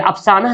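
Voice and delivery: अफसाना ending "-nah", with sounded "h"; as written. Shown as a demonstration. Teacher reading out the spelling, अफसाना as "af-saa-nah". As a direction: end अफसाना on an audible "h". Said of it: "थोड़ी बोलते हैं".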